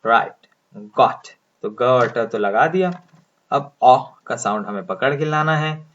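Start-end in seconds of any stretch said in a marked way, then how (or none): 0.8-1.3 गॉट said with a short rounded o and a crisp t; model pronunciation. Shown as a demonstration. Teacher modelling the word for students, slow and deliberate. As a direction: say गॉट slowly and clearly with a rounded vowel. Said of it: "pronounce करिए".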